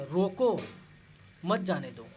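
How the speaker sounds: loud scolding रोको, then मत जाने दो. Shown as a demonstration. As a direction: snap रोको out loud like a telling-off. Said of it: "यहाँ पे आप लोग डांट के बोलिए". (डांटते हुए)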